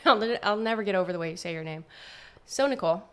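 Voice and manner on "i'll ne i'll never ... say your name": laughing. Real, not acted. Laughing while teasing co-host.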